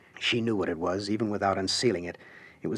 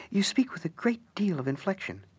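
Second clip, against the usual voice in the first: dry whisper; whispered remark; 9 semitones higher, 3 dB quieter than usual. Acted. Alice to the Harlequin, a dry whispered jab. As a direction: lean in and hiss the observation. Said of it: "Alice noted".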